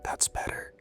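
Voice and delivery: soft unvoiced whisper. A narrator's reading. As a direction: breathe it out as a whisper. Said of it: "she whispered".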